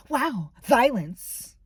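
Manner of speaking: slow, flat mock quote; mocking deadpan. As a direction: drag it out like a snide jab. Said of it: "she just goes".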